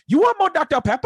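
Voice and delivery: a kid yelling a crude fake Asian accent; retold mock Asian accent. Kid yelling to waiter in crude mock Asian accent. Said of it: "most offensive Asian accent I've ever heard".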